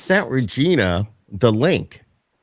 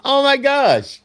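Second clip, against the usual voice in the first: put-on Valley Girl; much slower than usual. Shown as a demonstration. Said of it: "Listen to you".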